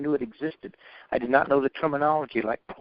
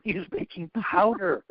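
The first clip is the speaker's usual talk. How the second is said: slow, chuckling with a higher voice; laughing punchline; 6 semitones higher than usual. Retold or imitated. Mentor joking about baking powder, slow and chuckling. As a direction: laugh into the joke.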